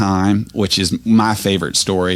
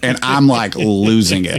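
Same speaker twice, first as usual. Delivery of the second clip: ordinary delivery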